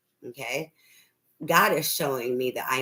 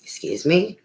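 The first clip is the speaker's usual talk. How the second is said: indignant disbelief; 6 semitones higher than usual. Retold or imitated. Indignant reaction to the demand.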